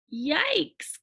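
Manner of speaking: high startled yelp; startled cry. Acted. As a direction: jump at it. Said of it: "cried Joey Mackerel".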